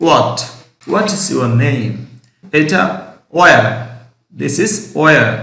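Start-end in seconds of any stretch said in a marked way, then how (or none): 0.1-0.4 what said as wat, h silent; correct pronunciation. Shown as a demonstration. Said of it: "এটা শুদ্ধ উচ্চারণ হবে". 3.4-3.7 where said as wear, h silent, a touch louder; correct pronunciation. Shown as a demonstration. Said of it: "এটা হবে শুদ্ধ উচ্চারণ where".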